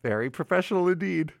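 fast, brisk throwaway line; quick aside. Real, not acted. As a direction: rattle it off and move on. Self-mocking repeat after a fumble.

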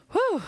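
high puff of relief; catching breath with a whew; winded whew. Real, not acted. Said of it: "I'm out of breath".

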